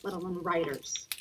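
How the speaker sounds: lightly voiced scornful mother; imitating mother. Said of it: "she laughed in my face and said".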